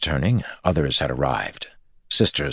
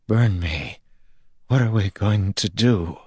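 despairing; 6 semitones higher than usual. Acted. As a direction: plead for an answer in despair. Pavara despairs.

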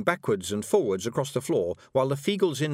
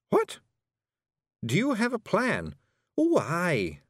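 Scottish Feegle Rob; 8 semitones higher, slower than usual. A narrator's reading. Rob Anybody brags to Miss Level, high Scots Feegle. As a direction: play a cocky little Feegle, high and brash.

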